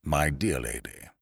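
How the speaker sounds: slow, pained remonstrance; understated, dismayed old lawyer; expostulating. A narrator's reading. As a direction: protest politely. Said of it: "expostulated Mister Murbles".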